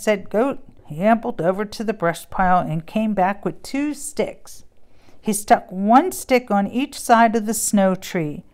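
lively storybook read-aloud with character voices; reading to children. Acted. Mom reading a Christmas book to kids. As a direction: read it like bedtime story time.

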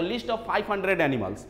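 slow dictation. Shown as a demonstration. Teacher repeats key fact for notes.

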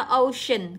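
"ocean" slowly, with a clear sh. Shown as a demonstration. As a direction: draw out "ocean", c said as sh. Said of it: "cũng là sh". (đọc chậm "ocean", rõ âm sh)

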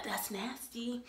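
whispered disgust. Real, not acted. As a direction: breathe out your revulsion.

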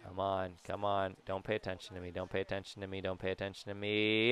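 soft, repeated sneaky plea; furtive muttering. Pretend. Player sneaking a steal, furtive muttering. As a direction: keep it low and quiet to slip by unnoticed.

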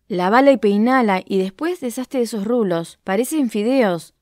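the mandrill mocking the lion's curls. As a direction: poke fun at him. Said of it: "se burló el mandril".

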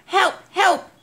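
high-pitched, panicky call for help; urgent cry for help. A narrator's reading. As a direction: plead down the phone for rescue. Boy phones police for help.

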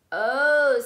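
shop assistant. Acted. Shop assistant voiced in story.

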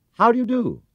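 high, loud courteous greeting; polite call. A narrator's reading. Paddington politely calls to the bowler, high and loud. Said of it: "he called out".

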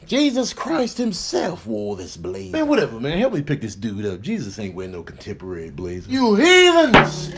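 loud, high hammed-up preacher proclaiming; over-the-top sermon voice; mock preacher. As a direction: holler it like a tent-revival preacher. Preacher-style chant over absurd item.

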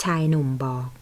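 usual speaking voice

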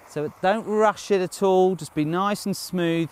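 called out high and loud; cheery ski instructor shouting. Shown as a demonstration. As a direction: shout the advice up the slope. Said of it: "coach calling out advice".

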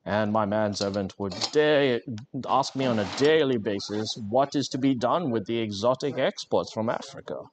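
lightly put-on upper-class English voice; hint of a toff recalling the family estate; mock posh English. Streamer spinning a fake posh childhood, lightly put-on posh English. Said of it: "but a super posh voice".

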